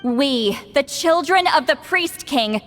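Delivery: solemn, measured chant to the ruler of death; ritual incantation. Acted. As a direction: intone each line like a sacred rite. S0 incantation continues.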